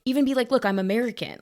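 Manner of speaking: high, loud pleading advice; exasperated urging. Pretend. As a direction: urge her, exasperated. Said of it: "I'm like".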